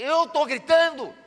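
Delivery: mock-innocent yell; ironic loud retort. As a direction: pitch jumps high on a loud, slow "Eu tô gritando?". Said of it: "Eu falei".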